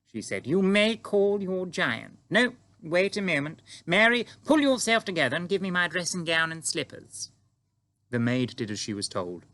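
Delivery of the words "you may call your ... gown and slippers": high, loud regal orders; imperious queen, voice raised; commanding queen. Acted. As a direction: take charge and order the maid about.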